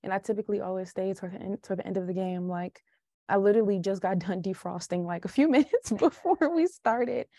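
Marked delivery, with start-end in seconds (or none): 3.3-7.3 words broken by real laughs; laughing. Real, not acted. Host laughs telling guest she just thawed out, laughing. Laughing about thawing out after game.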